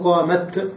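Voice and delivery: "قامت" stopped on an unvowelled t, "qaamat"; pausal silent-vowel t. Shown as a demonstration. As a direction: slowly end "قامت" on a clear t. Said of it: "وتقف عليها بالتاء الساكنة".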